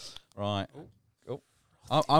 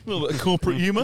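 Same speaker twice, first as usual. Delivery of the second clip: laughing; 10 semitones higher, 8 dB louder, faster than usual. Real, not acted. Laughing at corporate humour joke.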